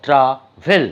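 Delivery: ট্রাভেল broken into tra and vel; two separate syllables. Shown as a demonstration. Teacher counting syllables for students, ট্রাভেল said in two parts. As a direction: say ট্রাভেল in two distinct beats. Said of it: "দেখো দুটো syllable".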